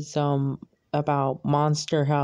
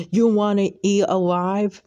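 menacing yell; 5 semitones higher, 4 dB louder than usual. Acted. Grumpy neighbor threatens girl.

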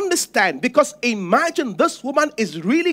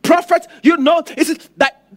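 pleading widow; 6 semitones higher, 3 dB louder than usual. Acted. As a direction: beg the prophet for an answer. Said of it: "This woman said".

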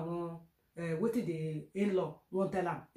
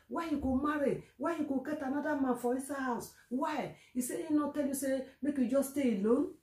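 retold quarrel; 5 semitones higher than usual. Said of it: "Say he come dey quarrel".

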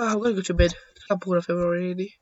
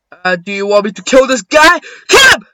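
excited shout; 14 dB louder than usual. Pretend. Player egging themselves on to kill, excited shout. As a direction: erupt on the last two words.

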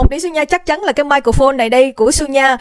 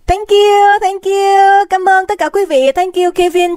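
excited thanks; 6 semitones higher, slower than usual. Real, not acted. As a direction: gush thanks at the chat. (cảm ơn hào hứng, giọng cao)

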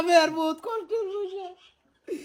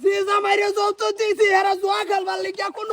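angry shout; 3 semitones higher than usual. Acted. Father learns of gambling.

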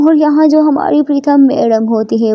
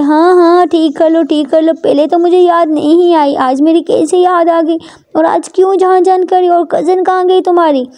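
higher-pitched, accusing retort; sarcastic Prita; 5 semitones higher than usual. Acted. Prita asks about the cousin, accusing. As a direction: throw the questions back as accusations.

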